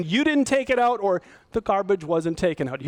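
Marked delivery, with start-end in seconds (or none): 0.0-1.0 blaming version. Shown as a demonstration. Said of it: "Do you hear the difference between".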